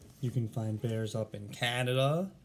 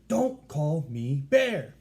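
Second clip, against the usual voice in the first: loud, slow, higher exclamation; loud all caps; 4 semitones higher, 8 dB louder, much slower than usual. Shown as a demonstration. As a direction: boom out the title like it's in capital letters. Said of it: "we're really going to say it like".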